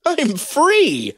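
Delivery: high, camp comic falsetto. Acted. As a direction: ham it up in falsetto. Joking about being used cheaply.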